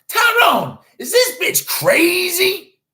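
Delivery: very high, loud, slow outraged yell; shrieking call. Retold or imitated. Host calling to Tyrone, shrieking in outrage. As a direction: yell across the room in disbelief.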